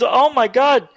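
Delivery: high-pitched retold astonishment; amazed dad. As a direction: exclaim as an awestruck father would. Dad amazed during the phone call.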